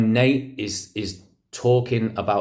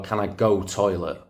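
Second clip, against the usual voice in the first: put-on quoting a Manchester kid, dropped "to the"; Manchester dialect. Teacher quoting Manchester pupils, Manchester dialect. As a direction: say it like a Manchester schoolkid. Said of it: "the kids in Manchester would say".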